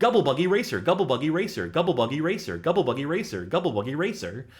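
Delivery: rattled off very fast and high-pitched. Taking the challenge to say a name five times fast, very fast. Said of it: "five times fast".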